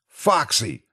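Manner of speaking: high, frightened cry of a name; scared cry. A narrator's reading. Narrator facing the animatronic, scared out of his wits. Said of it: "scared out of my wits".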